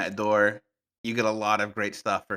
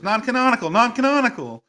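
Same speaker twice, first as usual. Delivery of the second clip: panicked mock cry, pitched way up; Tina panicking; 13 semitones higher, 7 dB louder than usual. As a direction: imitate a meme's loud, high-pitched panic. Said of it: "she's just panicking".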